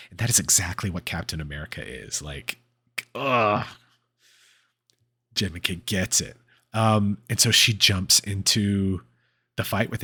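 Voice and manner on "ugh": drawn-out groan, pitched up; admiring groan. Real, not acted. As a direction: let out an overwhelmed "ugh". Gushing over Captain America's speech.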